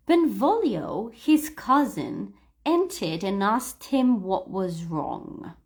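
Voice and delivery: slow, measured story reading; read-aloud model. Shown as a demonstration. Teacher giving students a line to repeat, slow model reading. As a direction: read it out slowly for learners to copy.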